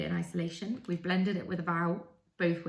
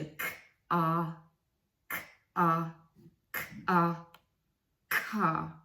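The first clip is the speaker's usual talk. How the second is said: closing the gap; slower than usual. Shown as a demonstration. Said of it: "this way round".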